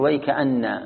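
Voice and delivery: ويكأن said whole, slowly, held on the final n; stop on whole word. Shown as a demonstration. Teacher showing the full stop, stop on whole word. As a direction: say ويكأن unbroken, way-ka-anna. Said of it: "من يقف عليها كامل".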